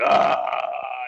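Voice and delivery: drawn-out loud ah; mock relieved yell. Drunk man in the stall yelling ah with relief. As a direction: belt out a long ah of relief. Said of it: "screaming that out as long as possible".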